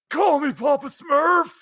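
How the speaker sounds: high, shouted cry; lone voice in the crowd. Acted. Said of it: "this is where the lone".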